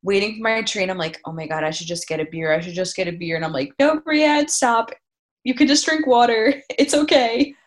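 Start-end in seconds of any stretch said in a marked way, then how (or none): 1.2-3.4 tempted inner voice. Retold or imitated. 3.8-7.5 self-scolding. Retold or imitated. Scolding herself, retold.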